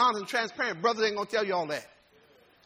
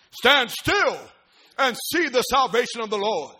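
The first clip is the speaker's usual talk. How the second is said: emphatic proclamation to a crowd; Moses addressing people; 4 dB louder than usual. Acted. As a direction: proclaim it firmly, hitting key words. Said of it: "stands before the people and says".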